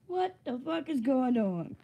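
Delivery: slow, drawn-out disbelief; deadpan bafflement, taken slowly; retold bewilderment. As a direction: drag out each word, mock-baffled. Repeats baffled reaction to the video.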